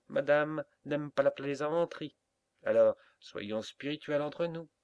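loud, mocking turkey voice; pompous turkey. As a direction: sneer like a self-satisfied turkey. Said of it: "dit le dindon".

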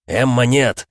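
urgent cry; shout. A narrator's reading. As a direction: call out her name sharply. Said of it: "хотел крикнуть Марк".

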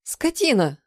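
high shrieked insult; wife shrieking an insult before she bursts into tears. Acted. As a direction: squeal it at him in fury. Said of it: "взвизгнула я".

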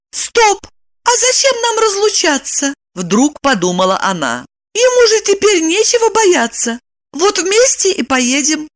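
high, lively woman's inner voice; Lipochka's thoughts. A narrator's reading. Lipochka planning to take Roman along. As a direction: think it through brightly.

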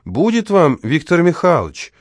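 high call from a window. Acted. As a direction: call down to the yard. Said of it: "крикнула из окна". (Елена Станиславовна кричит из окна)

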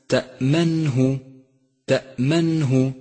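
تأمنه slowly, clean stop on the hamza; correct still hamza. Shown as a demonstration. Teacher modelling تأمنه, hamza held still. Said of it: "احذر من اللحن عند قراءة كلمة".

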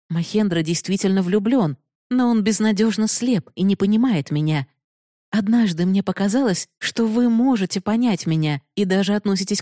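Binodini's voice. Acted. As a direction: speak as the proud, challenging heroine. Binodini confesses. (слегка повышенный голос героини)

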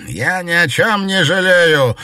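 proud, defiant reply; high, loud and unrepentant. A narrator's reading. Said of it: "гордо выпрямился повелитель кукол".

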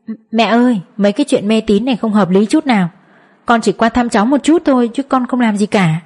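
plain reading voice

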